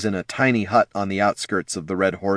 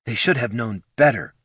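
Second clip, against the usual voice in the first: retort; 4 semitones higher than usual. A narrator's reading. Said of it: "she retorted".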